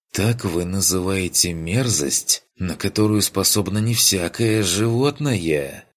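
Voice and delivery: outraged disbelief, building. Acted. Kurt outraged at the duke.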